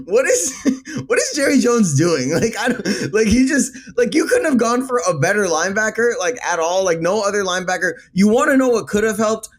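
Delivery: can't believe what he's seeing; incredulous. Real, not acted. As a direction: fan ranting at Jerry Jones. Incredulous rant at Jerry Jones.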